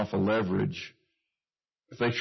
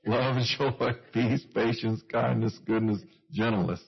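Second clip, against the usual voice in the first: laughing while listing the fruit, taking it slower; laughing, slower redo. Shown as a demonstration. Preacher laughing at himself, redoing the list carefully. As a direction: chuckle through the list, careful now. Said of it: "My brain has to slow down".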